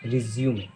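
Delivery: "रिज्यूमे" with a final may; correct pronunciation. Shown as a demonstration. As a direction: repeat "रिज्यूमे" as three syllables. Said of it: "बल्कि रिज्यूमे होती है".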